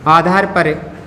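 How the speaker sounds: halting chunks with long pauses; writing-pace dictation. Real, not acted. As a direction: repeat in chunks while writing. Writes the phrase while saying it.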